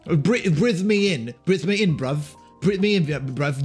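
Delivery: lightly voiced taunting fog creature; rough london slang. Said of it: "a patch of fog wobbling around and talking shit".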